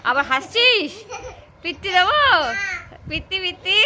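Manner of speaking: high, loud threat through laughter; laughing mock threat. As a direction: scold while laughing with her. Child laughs, mother threatens.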